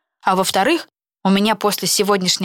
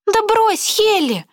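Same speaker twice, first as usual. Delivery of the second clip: high indignant outcry; indignant protest; much slower than usual. Acted. Karolina objecting to her friend, high indignant. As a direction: protest sharply, pitched well up. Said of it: "возмутилась Каролина".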